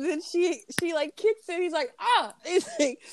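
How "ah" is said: high-pitched imitated "ah"; yelp of pain. Retelling Carter getting kicked, high mock yelp. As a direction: mimic a man yelping when kicked.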